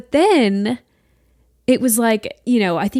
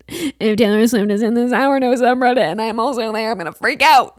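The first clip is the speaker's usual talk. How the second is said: loud, frantic fan outburst; hammed-up fangirl meltdown; mock freak-out; 3 semitones higher, 5 dB louder than usual. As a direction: build to a yelled panic of excitement. Imagining sharing the subreddit, freaking out.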